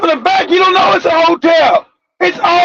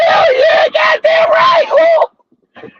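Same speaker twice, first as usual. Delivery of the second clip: ecstatic whoop; 13 semitones higher, much slower than usual. Retold or imitated. Comic reliving curled toes, high ecstatic whoop. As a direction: whoop it to the rafters.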